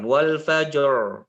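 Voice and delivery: wal fajr with an English-style r, no vibration; r without trill. Shown as a demonstration. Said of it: "Tanpa getaran".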